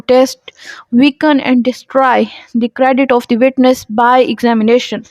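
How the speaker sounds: reading law text slowly and deliberately; measured dictation pace for students; slow statute reading. Acted. Reads statute text aloud. (धीमे-धीमे क़ानून की इबारत पढ़ना)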